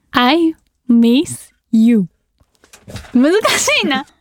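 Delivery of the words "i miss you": very slow, drawn-out I miss you; cute English line. Pretend. Idol says a cute English line to listeners, very slow. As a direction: stretch out a longing I miss you. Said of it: "もう一個".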